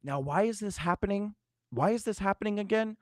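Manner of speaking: high, puzzled voice of the mother; imitating confused mom. Daughter imitates stroke-confused mom asking why, high and puzzled. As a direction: ask it high and bewildered, like mom did. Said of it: "she would go".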